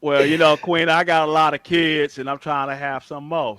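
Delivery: lightly voiced streetwise preacher; Pharaoh impression. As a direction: preach it like Pharaoh, half-joking. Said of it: "I can do Pharaoh sometimes".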